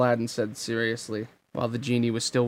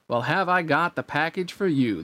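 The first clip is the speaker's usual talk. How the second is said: excited genie; 4 semitones higher than usual. Acted. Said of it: "the genie exclaimed".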